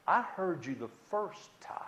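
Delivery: whispered, unvoiced; unvoiced whisper back to the threat; whispered reply. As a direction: breathe it out with no voice. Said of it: "I said to him".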